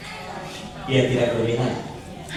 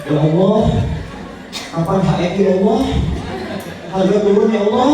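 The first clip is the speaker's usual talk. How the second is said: whining prayer building up; 3 semitones higher than usual. Pretend. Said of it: "Jangan Bapak dan Ibu sekalian begini".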